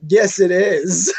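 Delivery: slow, loud, high wailing protest; crying shout. Real, not acted. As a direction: wail it in mock despair. Arguing the song is terrible.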